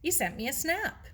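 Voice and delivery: cheeky girl teasing her friend, lightly voiced; teasing Maggie. Maggie teasing, cockney-ish voice.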